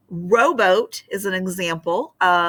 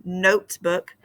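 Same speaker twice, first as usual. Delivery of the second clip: notebook with NOTE stronger; NOTE-book, demonstrating the accent; stress on first syllable. Shown as a demonstration. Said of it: "first syllable is the accented one".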